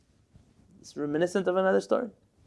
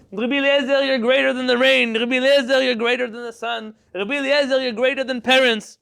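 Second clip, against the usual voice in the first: raised pitch and a little louder, flattering calls; lightly voiced eager praise; 5 semitones higher, 3 dB louder than usual. Students flattering their sick rabbi with mild eager praise. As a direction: gush over the rabbi, only half acted. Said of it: "hears all these people saying".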